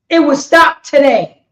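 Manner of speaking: loud declaration. Real, not acted. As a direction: proclaim it to the crowd. First take, declared loud.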